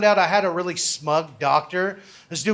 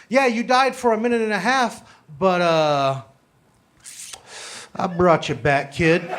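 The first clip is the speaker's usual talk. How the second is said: smug doctor. Retold or imitated. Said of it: "And this is how he does it. He paused".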